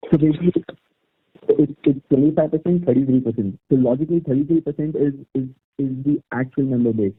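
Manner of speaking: muffled, as through a hand. Real, not acted. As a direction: talk with a hand over the mouth. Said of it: "your voice is muffled".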